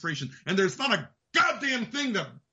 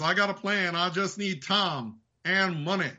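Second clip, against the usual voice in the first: Dutch impression; 3 semitones lower than usual. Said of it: "I did re-, invoke Red Dead".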